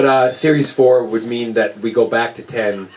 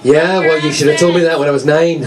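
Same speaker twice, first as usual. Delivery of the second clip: mock grievance; 4 semitones higher than usual. Mock grievance after audience reply.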